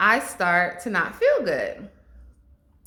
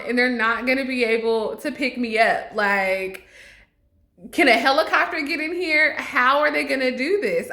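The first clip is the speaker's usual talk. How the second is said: mock panic; 5 semitones higher than usual. Mock-dramatic fear of dying.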